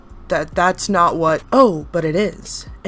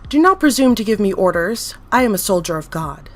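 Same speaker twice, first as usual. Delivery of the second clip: commanding, louder rebuke; righteous wrath; cold fury; 4 dB louder than usual. Acted. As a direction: put the doctor in his place. Entity rebukes the doctor.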